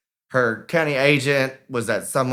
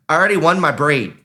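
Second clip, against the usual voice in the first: protesting; 3 semitones higher, 6 dB louder, faster than usual. Retold or imitated. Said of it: "she's like".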